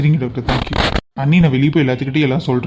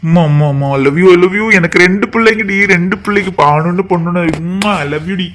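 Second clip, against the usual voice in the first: higher, louder burst of joy; overjoyed father; 4 semitones higher, 4 dB louder than usual. Acted. New father of twins gushing with joy, higher and loud. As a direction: gush with love and delight.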